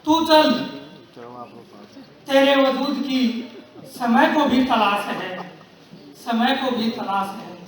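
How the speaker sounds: measured, declaimed verse with long pauses; rousing verse, falling away on the refrain; poem recitation. Acted. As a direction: recite it deliberately, letting each line's ending sink. Recites Harivansh Rai Bachchan poem.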